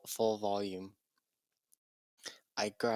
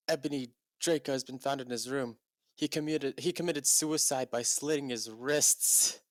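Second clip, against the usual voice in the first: mock grave announcement; 5 semitones higher, 3 dB louder than usual. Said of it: "he started to cry wisely".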